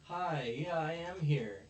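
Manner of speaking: high, loud, slow flustered answer; flustered girl. Retold or imitated. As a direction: blurt it out, suddenly remembering. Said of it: "And she's like".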